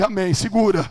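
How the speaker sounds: loud, hurried command in a retelling; forceful acted warning; retold urgent restraint. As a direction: call out to hold her back. Urges excited woman to hold back.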